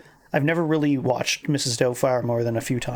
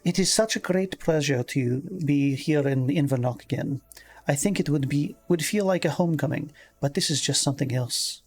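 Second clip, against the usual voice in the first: lightly voiced Scottish reading; a touch of female Scottish accent. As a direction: read the article with a Scottish lilt. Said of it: "doing the Scottish accent the whole time".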